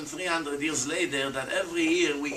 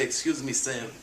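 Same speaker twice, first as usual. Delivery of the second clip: mock skeptic; 5 semitones lower than usual. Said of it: "you would say".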